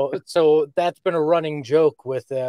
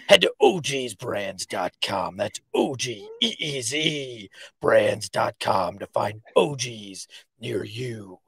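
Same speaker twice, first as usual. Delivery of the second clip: lightly voiced low vigilante; a weak Batman pitch, slowing to the end; a hint of Batman in an ad read; 3 semitones lower, slower than usual. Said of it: "usually I do a better Batman".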